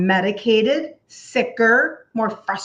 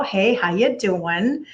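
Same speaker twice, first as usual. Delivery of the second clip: Italian-American greeting; slower than usual. Pretend. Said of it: "I'm Italian".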